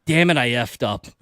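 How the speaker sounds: slow, understated retold confession; rueful admission. Police officer admitting his mistake to the driver, rueful. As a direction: drop it slowly and matter-of-fact.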